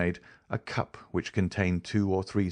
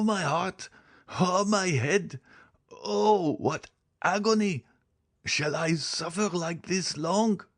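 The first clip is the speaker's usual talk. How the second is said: high, drawn-out cries of agony; agonized dying man; 11 semitones higher, slower than usual. Acted. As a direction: choke out the words in a high, strained, slow wail.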